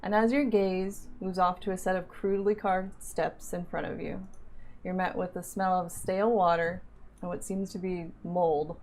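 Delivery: game master narration. Acted. DM narrates opening scene.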